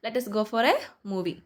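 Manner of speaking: slow dictation. Shown as a demonstration. Teacher dictates example slowly.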